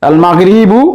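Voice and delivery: "আল মাগরিবু" with the article's lam audible; lam pronounced. Shown as a demonstration. Teacher showing students the lam sounded in "আল মাগরিবু". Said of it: "লাম উচ্চারণ হচ্ছে".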